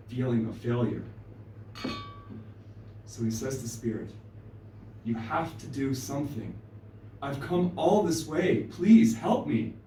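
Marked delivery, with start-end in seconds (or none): 5.0-9.7 desperate plea. Acted. Crow begging Spirit after the long flight, desperate. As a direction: beg with growing desperation.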